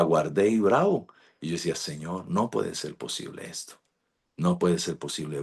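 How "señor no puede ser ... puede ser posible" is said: much softer, disbelieving grumble to God; muttered frustration. Retold or imitated. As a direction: mutter it under your breath, fed up. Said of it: "bravo con Dios".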